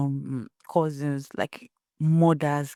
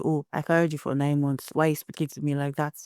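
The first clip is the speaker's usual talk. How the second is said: mother scolding; faster than usual. Retold or imitated. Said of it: "you hear people say".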